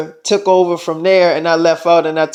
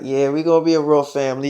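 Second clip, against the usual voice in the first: soft reassurance; 6 semitones lower, 6 dB quieter, faster than usual. Acted. Reassures partner in intimate talk.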